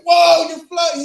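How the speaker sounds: loud, high, drawn-out cry of amazement; big high-pitched mock astonishment; amazed kid. Acts out amazed kid at pool.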